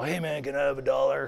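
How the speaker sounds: put-on drunken voice asking a favor; imitated drunk. Drunk man begging on the sidewalk, in an imitated drunken voice. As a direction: play a drunk hitting someone up. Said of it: "just red-faced drunk".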